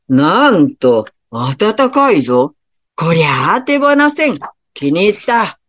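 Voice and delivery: pleased, booming ruler of hell; gruff King Enma. Acted. King Enma speaks in the story. (驚いて喜ぶ低い閻魔大王の声)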